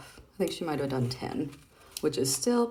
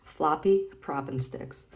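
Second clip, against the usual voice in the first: savoring the name; slower than usual. Shown as a demonstration. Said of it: "I'm gonna say it one more time".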